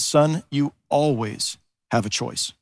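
slow, weighty grandfather's words; lightly voiced wise grandfather, slowly and earnestly; important tone. Grandfather telling his grandson something he must remember, slow and weighty. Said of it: "in a tone of voice that you knew these words were important".

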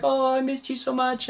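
high, soft cooing; tender reunion. Retold or imitated. Owner cuddling her found mink, tender. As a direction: coo to a beloved pet, acting it out.

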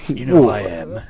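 low tough-guy movie line, lightly voiced; Jason Statham. Host showing his one impression, lightly voiced low hard man. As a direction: attempt a film hard man. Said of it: "Jason Statham if you want".

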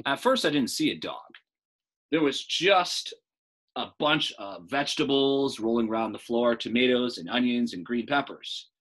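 put-on lively storytelling voice for children; story narration. Teacher reading aloud to class, lively narration. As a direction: read it like a bedtime story.

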